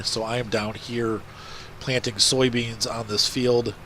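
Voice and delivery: stuffy, congested voice; talking through a blocked nose. Real, not acted. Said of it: "you can hear from my voice".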